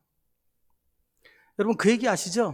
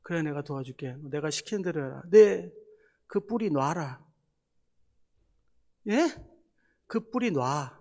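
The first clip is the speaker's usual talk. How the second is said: voice of God; 4 dB quieter than usual. Retold or imitated. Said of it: "음성이 들리대요".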